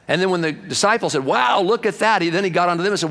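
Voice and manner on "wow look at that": higher, louder, awed exclamation; amazed. Retold or imitated. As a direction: gasp it out like you just saw a miracle. Amazed disciples see the calm.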